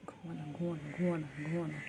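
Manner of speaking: soft whispered lull. Real, not acted. Owner whispering her pet to sleep, soft whisper. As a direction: breathe it without voice, coaxing to sleep.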